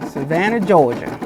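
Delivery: lightly put-on Southern accent; playful southern accent. Host teasing viewer Nicole about her hometown, playful Southern accent. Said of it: "Do you have an accent".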